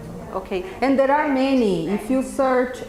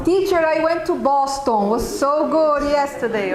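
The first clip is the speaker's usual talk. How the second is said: a lightly voiced eager student; mock student; 4 semitones higher than usual. Teacher imitating a Brazilian student in class.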